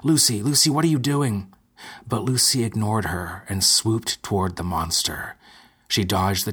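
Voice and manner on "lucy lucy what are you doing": high, loud alarmed calling; shouting. Acted. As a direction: call her name in alarm, loudly. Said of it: "Ethel shouted".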